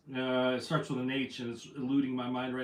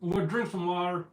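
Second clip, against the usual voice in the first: talking while chewing; words through a mouthful of burger; mouth full; 2 semitones higher than usual. Real, not acted. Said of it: "I'm gonna talk with my mouth full".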